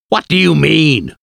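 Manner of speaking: angry demand. A narrator's reading. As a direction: demand an explanation, stung and angry. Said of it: "Arthur asked angrily".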